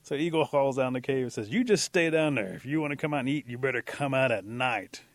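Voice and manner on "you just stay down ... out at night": raised, scolding holler; calling down. Acted. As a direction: holler the order down into a cave. Eagle calls down into cave.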